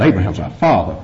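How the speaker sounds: low, self-important boast; chest-puffed pride. Acted. The Jews boasting to Jesus of their lineage, chest-puffed. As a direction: puff the chest out a little. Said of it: "chest swell out a little bit".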